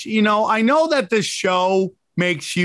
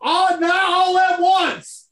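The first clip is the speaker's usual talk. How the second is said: much higher, slow, mincing mock voice; impression of Brian; 7 semitones higher, slower than usual. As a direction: ham up Brian begging coyly. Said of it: "that was my impression of you".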